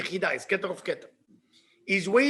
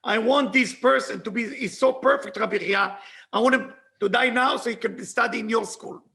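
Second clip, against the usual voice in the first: raised, insistent demand; Messiah's demand; 3 dB louder than usual. Retold or imitated. Messiah demanding Rabbi Chia for the school, insistent. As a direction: press the demand, lightly acting the Messiah. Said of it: "Look what he say".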